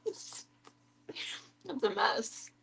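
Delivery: slow laugh-filled drawl. Real, not acted. Laughing at dog's feet.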